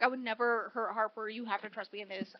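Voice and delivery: quiet earnest quote. Retold or imitated. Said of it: "and Gray's like".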